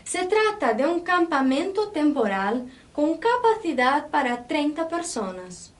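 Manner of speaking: teacher reading aloud, making the accented syllables noticeable; demonstrative Spanish read-aloud. Shown as a demonstration. Teacher reads the text for students to notice accents, demonstrative Spanish read-aloud. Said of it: "Percebam a minha pronúncia quando há esse acento".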